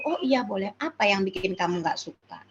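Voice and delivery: put-on adult calmly accepting the child's dislike; calm adult reply. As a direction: reassure the child quietly. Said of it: "adult answering upset child".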